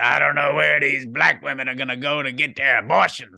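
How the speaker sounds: put-on hoarse, rasping elderly woman's voice. Retelling what an abortion facility owner said in an interview: imitating a raspy-voiced old lady. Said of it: "she had the raspy voice".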